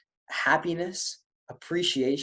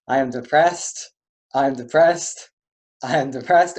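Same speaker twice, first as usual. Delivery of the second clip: loud, upright declaration of depression; claiming to be depressed; 5 dB louder than usual. Shown as a demonstration. Coach has the class declare it sitting tall. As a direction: say it proudly with a big grin. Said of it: "really try and convince me".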